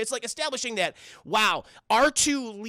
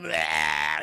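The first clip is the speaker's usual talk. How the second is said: mock creepy bleh; 6 semitones lower than usual. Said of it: "And he's like".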